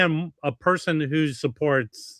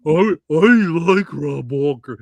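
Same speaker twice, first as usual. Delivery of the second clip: wrong take; 7 dB louder than usual. Shown as a demonstration. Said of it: "Hold on. I did that wrong".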